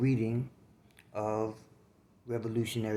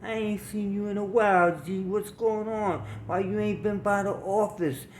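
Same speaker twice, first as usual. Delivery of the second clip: high-pitched, delighted surprise; louder and much higher, voicing her happy greeting; 10 semitones higher, 6 dB louder than usual. A narrator's reading. Woman at party office greets a long-unseen friend, happily. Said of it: "she got happy and said".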